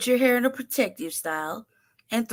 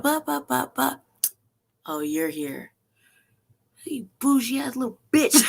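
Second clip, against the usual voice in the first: high sneering mock voice; mocking the son; 5 semitones higher than usual. Dad mocking his flamboyant son's arrival, sneering. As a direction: sneer at him like a spoiled kid. Father mocks son's entrance.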